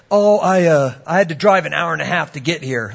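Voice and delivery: imitated grumbling, loud opening then easing off; mock a mildly whiny complainer; griping. Young man griping about his drive to the interview, grumbling. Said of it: "he was kinda griping".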